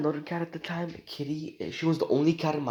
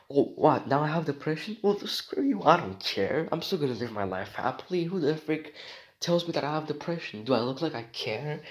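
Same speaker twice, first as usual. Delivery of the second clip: defiant mock retort. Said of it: "show in front of life itself".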